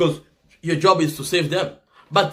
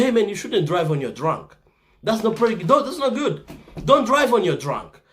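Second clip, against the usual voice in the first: earnest, higher advice to a buddy; friendly warning; 4 semitones higher than usual. Retold or imitated. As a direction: plead with a friend not to drive drunk.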